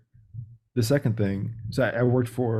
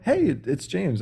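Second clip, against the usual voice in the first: upbeat, higher greeting matching the caller; match their excitement; 6 semitones higher, slower than usual. Retold or imitated. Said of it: "I'm gonna match that tone".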